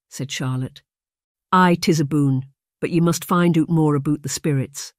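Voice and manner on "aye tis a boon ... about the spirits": put-on light Scottish brogue of a young maid; lightly Scottish maid. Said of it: "Her Scottish brogue was pronounced".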